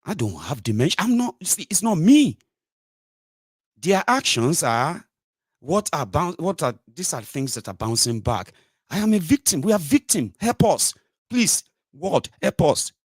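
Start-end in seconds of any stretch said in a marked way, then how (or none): 1.0-2.4 high, whiny mock protest; a hammed-up whiny denial. 8.9-12.9 high, whining cry for help; hammed-up pleading victim voice; mock plea for help.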